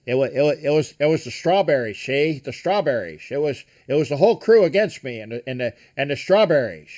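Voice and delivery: lightly voiced old-film actor, slurred esses; a hint of a classic movie impression; Humphrey Bogart. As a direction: lightly mimic a rambling screen captain. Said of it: "it was Humphrey Bogart in the K Mutiny".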